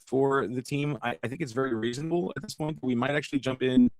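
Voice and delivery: glitchy robot-sounding connection; choppy digital line; robotic audio. Real, not acted. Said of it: "I'm being told I sound like a robot".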